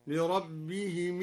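لربهم with the final م given a kasra, said lirabbihimi; slow chant putting a kasra on the mim of لربهم. Shown as a demonstration. Teacher shows the kasra on the mim, slow chant. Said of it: "وكسر الميم".

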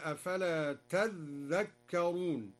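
"تذكرون" said tadh-dhakkarun; slow recitation, press the double dh in "تذكرون"; doubled dhal. Shown as a demonstration. Teacher showing the reading, "تذكرون" with doubled dhal. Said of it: "وشدد الذاء".

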